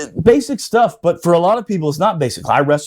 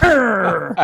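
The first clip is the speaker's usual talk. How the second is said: mock growl; 4 semitones higher than usual. Imitating the furious kicker.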